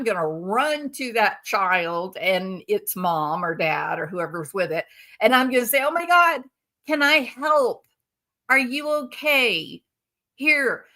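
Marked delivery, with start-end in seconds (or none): 5.8-10.9 higher-pitched, mock-alarmed helper; acted horrified concern. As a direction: rush in with hammed-up worry. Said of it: "that is horrified that the child has hurt".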